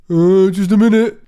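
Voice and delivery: loud strained reply. Acted. Paul answering his mate from the loo, high and loud. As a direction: yell back from behind a door.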